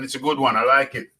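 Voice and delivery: normal talking voice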